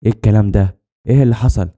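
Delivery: mildly alarmed questioning; taken aback, demanding an explanation; startled. Acted. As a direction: ask it with a touch of shock. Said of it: "اتخضيت وقلت لها".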